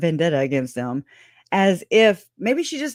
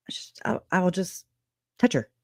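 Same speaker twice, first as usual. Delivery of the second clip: hushed threat in a whisper; 6 dB quieter than usual. Real, not acted. Mock threat to touch her.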